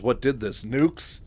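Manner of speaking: incredulous outburst, lightly acted; forceful thinking aloud. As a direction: blurt it out with some force. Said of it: "says it with enough force in his voice".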